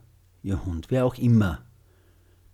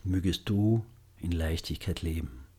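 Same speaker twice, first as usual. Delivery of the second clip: gentle and loving; 2 semitones lower, 3 dB quieter than usual. Shown as a demonstration. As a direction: wish ease tenderly. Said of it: "Wiederholen Sie die Sätze sanft und liebevoll".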